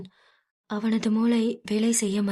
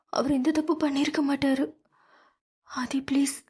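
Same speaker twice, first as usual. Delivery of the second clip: whispered, desperate begging; whispered plea; 5 semitones higher, faster than usual. Acted. Meera whispering a plea to Aadhi for her father.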